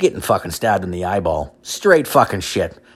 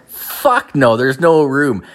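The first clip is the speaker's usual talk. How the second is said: emphatic refusal; 5 semitones higher, slower than usual. Real, not acted. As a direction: slam the door on the idea. Repeated refusal, louder.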